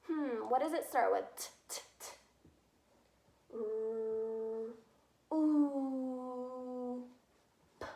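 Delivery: "troop" sounded out letter by letter, T t t, R, oo, p; sounding out words. Shown as a demonstration. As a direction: stretch out each sound of "troop" slowly, like a child spelling. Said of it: "a quick little example of that".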